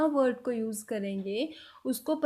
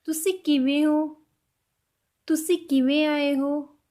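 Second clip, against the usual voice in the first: slow Punjabi demo; 3 semitones higher, 4 dB louder, slower than usual. Shown as a demonstration. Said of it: "sentences कैसे रहेंगे पंजाबी में?".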